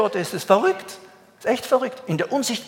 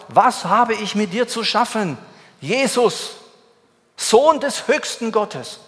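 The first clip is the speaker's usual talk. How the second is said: high, loud, slowed demon cry; 5 semitones higher, 4 dB louder, slower than usual. Acted. Possessed man falls down and cries out loudly. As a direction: cry out, drawing out the name. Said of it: "rief laut".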